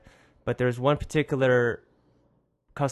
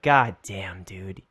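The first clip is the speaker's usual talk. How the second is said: under-breath threat; 4 semitones lower than usual. Retold or imitated. Inner annoyed thought.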